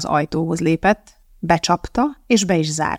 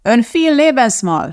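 high, slow, raised voice; clearly projected, higher answer; answering out loud; 7 semitones higher, 4 dB louder, slower than usual. A narrator's reading. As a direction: call it out over background noise. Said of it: "felelte Elizabeth fennhangon".

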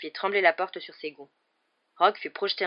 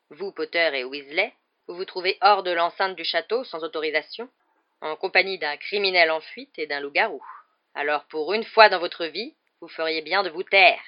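loud, controlled reprimand, building in force; stern scolding; 8 dB louder than usual. A narrator's reading. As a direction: rebuke them with weighty, emphatic words. Rogue réprimande les trois élèves. (réprimande sévère)

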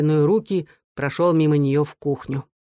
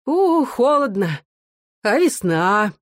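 higher and slower, a loud cover-up; loud forced chatter; 4 semitones higher, slower than usual. A narrator's reading. Mother to the quarrelling sons, loud forced cheer. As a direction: say it loudly to drown the quarrel out. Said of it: "громко заговорила".

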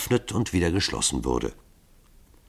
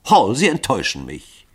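higher, louder wounded anger; angry reproach; 5 semitones higher, 5 dB louder than usual. A narrator's reading. Lycoville angrily reproaching Hall. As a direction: reproach him bitterly. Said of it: "rief Lycoville zornig".

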